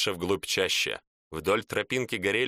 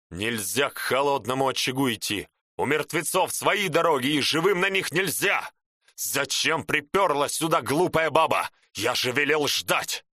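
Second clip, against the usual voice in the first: angry scolding; 3 semitones higher than usual. Acted. Shaman scolds the woman.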